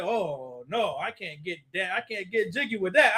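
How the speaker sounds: low, hushed put-on voice of the brother; mock brother backing off. A man backs out of the class, quietly declining. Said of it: "This brother said".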